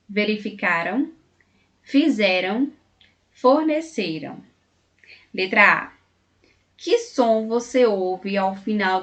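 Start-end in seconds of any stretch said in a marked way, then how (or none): 0.1-1.1 "Verificaram" with light, unstressed -ram ending; unstressed final -am. Shown as a demonstration. Teacher reading past-tense verbs aloud, unstressed -am ending in "Verificaram". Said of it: "atenção ao som final deles". 1.8-4.4 "fizeram, forneceram" with weak -ram endings; unstressed final -am. Shown as a demonstration. Teacher reading past verbs for their final sound, light -am endings in "fizeram, forneceram". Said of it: "atenção ao som final deles".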